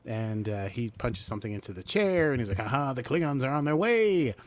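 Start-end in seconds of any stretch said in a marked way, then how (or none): 2.6-4.3 lightly voiced gloating villain, higher pitch; mock villain triumph. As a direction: crow it like a cartoon villain. Retold villain announcing his triumph.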